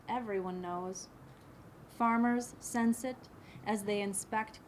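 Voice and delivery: measured poem recital with pauses between phrases; deliberate, literary read-aloud cadence; poetry reading. Acted. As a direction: read the poem line by line, letting each image settle. Reads own poem aloud.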